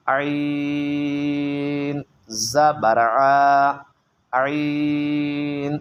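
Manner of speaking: sing-song reading primer drill; slow spelling drill. Shown as a demonstration. Teacher drills letters with vowel marks, slow sing-song. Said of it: "اسی طرح آپ نے پڑھتے جانا ہے".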